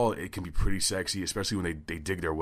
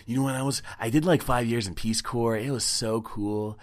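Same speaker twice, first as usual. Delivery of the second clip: bragging volunteer; 2 semitones higher, 4 dB louder than usual. Acted. Mocking bragging Peace Corps volunteer.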